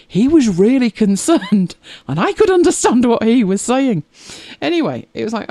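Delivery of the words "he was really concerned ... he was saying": laughing disbelief. Retold or imitated. Retelling her own thoughts about consultants.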